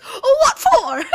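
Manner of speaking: high, slow, drawn-out Southern twang; exaggerated Southern accent, slow and loud. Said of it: "that was my Southern accent".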